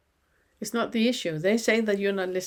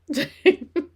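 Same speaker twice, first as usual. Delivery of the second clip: laugh; 8 semitones higher, 5 dB louder than usual. Real, not acted. Laughs after acted insult.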